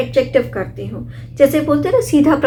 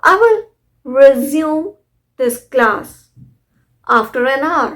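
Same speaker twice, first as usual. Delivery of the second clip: emphatic example; much slower than usual. Shown as a demonstration. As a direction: announce the sentence with a lift on I will. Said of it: "जारी रखना". (ज़ोरदार, ऊँचा उदाहरण वाक्य)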